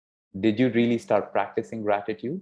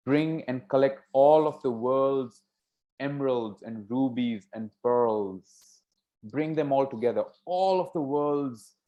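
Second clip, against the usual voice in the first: higher, sweeping, stretched-out ALL; lavish flattery; 4 semitones higher than usual. Acted. Second daughter praising her father with jewels, lavishly. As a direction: pile up the riches grandly.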